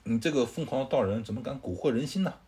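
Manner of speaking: 愤怒地斥责; scolding. Acted. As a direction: scold the Taoist with a mild edge. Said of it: "孙策就骂他说".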